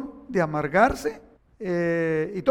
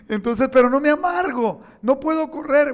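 laughing; 6 semitones higher, 5 dB louder than usual. Real, not acted. Laughs about his bad knee.

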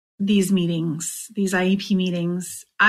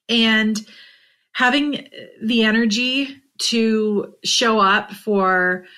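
getting emotional; 3 semitones higher than usual. Real, not acted. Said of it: "I am getting emotional".

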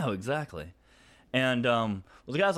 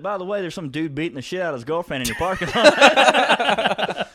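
louder, higher, laughing offhand news; casual report; 6 semitones higher, 9 dB louder than usual. Retold or imitated. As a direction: mention a beating like small talk. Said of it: "He's like".

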